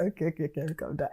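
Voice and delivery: low, hushed settling down; calming oneself. Real, not acted. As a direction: drop the voice right after an outburst. Calming self after singing outburst.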